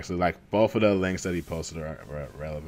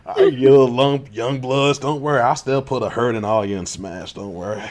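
put-on old prospector; 3 dB louder than usual. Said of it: "This old dog still got some tricks".

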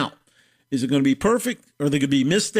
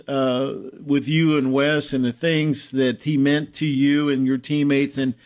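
sincere condolence; 4 semitones lower than usual. Real, not acted. Condolences on a friend's death.

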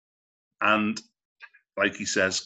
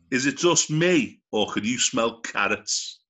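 slow punchline delivery; slower than usual. Acted. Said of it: "You do your joke".

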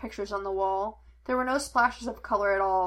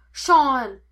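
loud, raised shout of a name; shouted name, higher and falling; calling after someone; 4 semitones higher, 11 dB louder than usual. A narrator's reading. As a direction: call him back urgently. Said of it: "Henry called after him".

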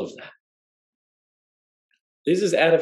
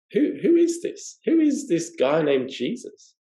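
amazed question; 5 semitones higher than usual. Retold or imitated. Disciples amazed in the boat.

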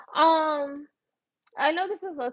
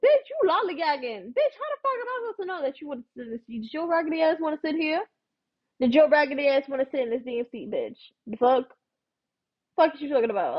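retold rant; 3 semitones higher, faster than usual. Retold telling-off of lady over seat.

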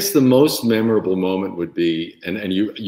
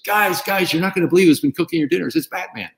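excited announcing; 10 semitones higher than usual. Retold or imitated. Cook announces to dining room.

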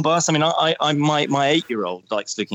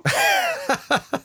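imitating son's laugh. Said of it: "actually sort of laughed after he said it".

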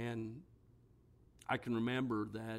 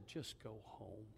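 retold whisper; 12 dB quieter, slower than usual. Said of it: "she whispered in his ear".

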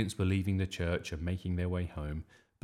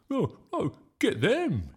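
high, loud rallying yell; yelled back; 12 semitones higher, 7 dB louder than usual. A narrator's reading. Bertie yelling back at Nick's gang, high loud yell. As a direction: fire back a louder battle cry. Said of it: "he yelled back".

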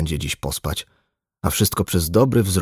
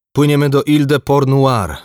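high, loud skipper's announcement; decisive order; 8 semitones higher, 7 dB louder than usual. A narrator's reading. Skipper sets course for nearest island, decisively loud. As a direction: announce the new course with urgency.

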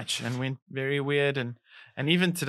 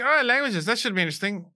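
mock enthusiasm; 7 semitones higher, faster than usual.

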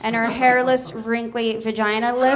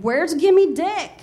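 mock irritation; 4 semitones higher, 3 dB louder, much slower than usual. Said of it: "pretends to be irritated".

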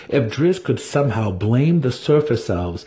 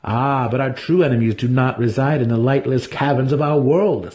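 sly smile; 4 semitones higher than usual. Acted. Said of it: "said Dinin with a sly smile".

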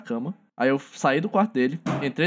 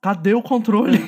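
retold shouting; 4 semitones higher, 4 dB louder than usual.

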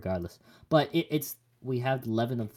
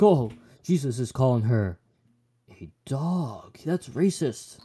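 mock outrage; 3 semitones higher, 6 dB louder, slower than usual. Voicing people who object to Jesus, mock outraged. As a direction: imitate offended people objecting. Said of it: "people are like".

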